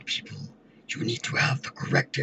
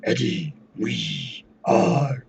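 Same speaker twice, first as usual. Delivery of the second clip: very slow dragged Venom voice; 4 dB louder, much slower than usual. Shown as a demonstration. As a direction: stretch it out like Venom. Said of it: "can you do like Venom".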